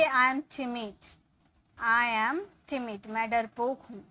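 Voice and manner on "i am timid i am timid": slow, clear dictation; slow model sentence. Shown as a demonstration. Teacher dictating the translation slowly. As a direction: stretch it for students to follow. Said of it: "इसके लिए बोलेंगे".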